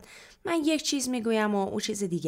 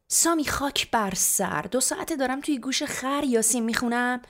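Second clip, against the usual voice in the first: exasperated mother yelling, higher pitched; angry screech; 6 semitones higher, 4 dB louder than usual. A narrator's reading. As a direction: scream at your daughter in exasperation. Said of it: "یکو عصبانی شد و جیغ کشید". (جیغ عصبانی مادر)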